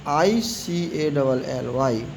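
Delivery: letters spelt out slowly one by one; slow spelling out. Shown as a demonstration. Teacher spelling the ending slowly for students. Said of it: "तो इधर आया".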